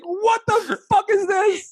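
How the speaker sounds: cracking up while quoting the parents; laughing retelling. Retold or imitated. Retelling the parents' line through laughter, laughing. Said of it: "They're like".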